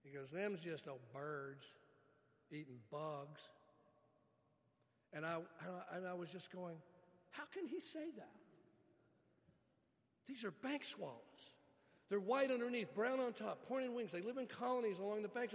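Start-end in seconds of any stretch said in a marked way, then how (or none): 0.3-3.4 slow West Virginia drawl, lightly imitated; West Virginia accent. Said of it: "I'll never forget his accent". 7.3-15.5 high and loud, bursting with excitement; excited protest. Retold or imitated. Retelling his own excited protest.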